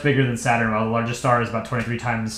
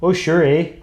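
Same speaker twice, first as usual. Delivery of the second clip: put-on playful Canadian accent, slightly higher; 4 semitones higher than usual. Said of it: "Canadian accents".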